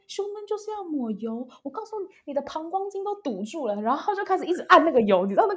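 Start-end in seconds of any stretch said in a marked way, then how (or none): 0.0-3.7 scolding masseur. Retold or imitated. Agitated masseur scolding her.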